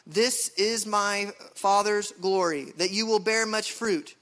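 impassioned public Bible reading; authoritative scripture reading. Real, not acted. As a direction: read scripture aloud with full conviction.

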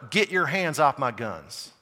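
put-on Southern accent, drawn out. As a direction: slip into a slow Southern accent. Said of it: "I spoke in a Southern accent".

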